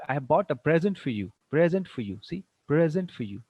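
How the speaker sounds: "present" said PREZ-ent in the phrase; stress on first syllable. Shown as a demonstration. Teacher giving a noun example, first-syllable stress on "present". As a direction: lean on PRE each time in "present". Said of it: "stress will be on the first syllable".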